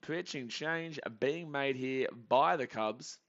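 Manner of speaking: measured repeat, words spaced out; slow, deliberate announcement. Real, not acted. Commentator repeating the pitching change, slow announcement.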